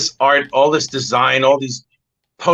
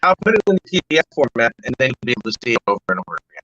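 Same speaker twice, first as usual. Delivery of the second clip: radio breaking up; much faster than usual. Real, not acted. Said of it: "You sound like you're breaking up a little bit".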